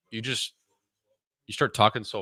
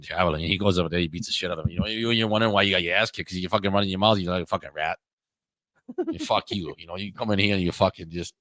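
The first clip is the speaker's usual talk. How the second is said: Boston tough guy. Retold or imitated. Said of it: "you should do an hour of Boston guy like that".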